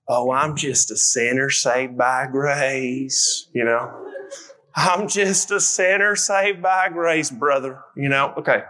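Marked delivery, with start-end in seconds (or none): 0.1-4.1 low, slow Southern drawl; put-on Southern accent, half speed. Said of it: "usually in a Southern accent". 4.7-7.8 slow, drawn-out Southern drawl; hammed-up Southern church brother; Southern accent. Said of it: "usually in a Southern accent".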